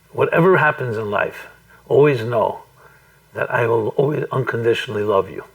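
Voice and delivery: imitating a meditation leader, mildly deliberate; a measured promise, broken by short pauses; slow, measured. Retelling a mother's promise to her child, slow and measured. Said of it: "he keeps on talking like this".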